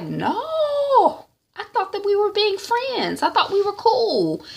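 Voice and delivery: high voice laughing through it; laughing denial. Retold or imitated. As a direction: brush it off with a laugh. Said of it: "T Y's like".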